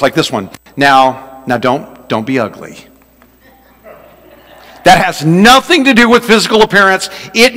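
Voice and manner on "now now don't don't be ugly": gentle scolding. Shown as a demonstration. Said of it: "phrases that are some of my favorites".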